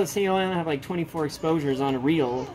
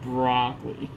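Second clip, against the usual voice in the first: melancholy app voice; 3 semitones lower than usual. Shown as a demonstration. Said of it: "why does it say broccoli? So depressed".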